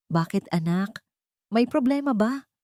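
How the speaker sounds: tender motherly question; gentle concern. Acted. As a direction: ask her kindly, like a mother. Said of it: "Malumanay na tanong".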